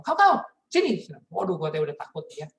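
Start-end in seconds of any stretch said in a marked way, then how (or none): 0.0-1.0 mom calling sternly. Retold or imitated. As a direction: call him over like an angry mom. Mother calling again. (mama memanggil dengan tegas dan keras)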